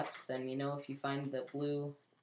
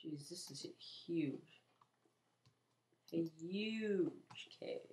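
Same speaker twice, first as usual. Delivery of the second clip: awed whisper; 3 semitones higher, slower than usual. Real, not acted. Awed in huge cave.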